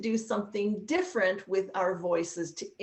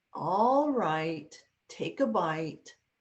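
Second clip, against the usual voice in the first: slower pace, lower pitch; 2 semitones lower than usual. Demonstrating storytelling voices, speaking as the mom: slower pace for the mom. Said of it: "I use a slower pace".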